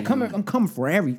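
lightly imitated Cali accent, a little sauce on it; mock a Cali accent, pronouncing every syllable; Jonathan Majors' Cali accent. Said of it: "the sauce on it".

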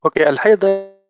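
choppy, cutting-out call audio; bad connection. Real, not acted. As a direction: voice breaking up over the line. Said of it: "صوتك قطع يا حمد". (صوت متقطع من ضعف الاتصال)

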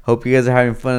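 loud, high, hyped-up hello; hyped greeting. Retold or imitated. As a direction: pump up the crew. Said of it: "I was like".

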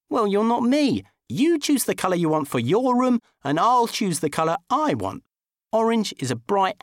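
high, loud stubborn retort; defiant Dickie. Acted. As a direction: dig his heels in.

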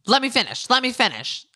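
high-pitched imitation of someone cutting in; mock insistence. Imitating Ramona when Dorinda cuts in, mock insistence.

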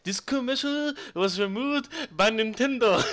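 laughing through a put-on Asian accent. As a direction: attempt an Asian accent while cracking up. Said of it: "I can't do an Asian accent".

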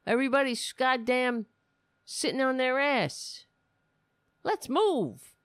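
sarcastic pep-rally impression; mocking Michelle Obama. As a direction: ham up a peppy fitness coach. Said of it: "because she want, you know".

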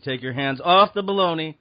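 escalating stern commands; calm turning angry. Pretend. Guard escalates at shopper.

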